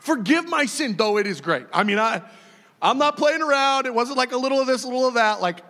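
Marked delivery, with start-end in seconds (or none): 0.0-1.7 David pleading. Retold or imitated. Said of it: "David would just come to God again and again and go".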